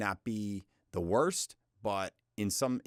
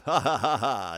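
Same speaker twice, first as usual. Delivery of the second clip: laughing; 3 semitones higher, 8 dB louder than usual. Real, not acted. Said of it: "laughs at himself".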